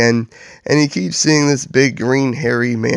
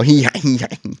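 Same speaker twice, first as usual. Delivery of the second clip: hammed-up sly giggle; mock villain's little laugh; sickening chuckle; 2 semitones higher than usual. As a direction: snicker through a sickly smile. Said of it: "He says with a sickening smile".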